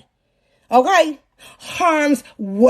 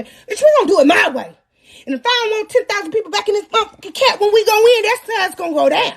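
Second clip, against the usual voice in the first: defiant retort; 6 semitones higher, faster than usual. Retold or imitated.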